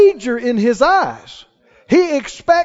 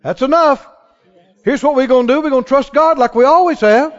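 firm reassurance; faster than usual. Retold or imitated.

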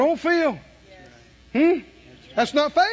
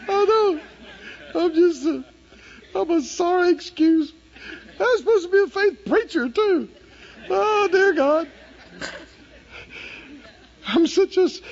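high, laughing self-reproach, louder; laughing confession; 10 semitones higher, 3 dB louder than usual. Retold or imitated. Preacher retelling her confession to the congregation, laughing. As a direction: laugh through a rueful confession.

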